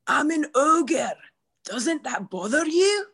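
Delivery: a hint of an ogre, slow; lightly voiced ogre; Shrek impression. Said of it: "your turn".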